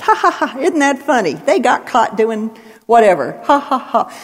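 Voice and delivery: mock a canned laugh track; mock sitcom laughter.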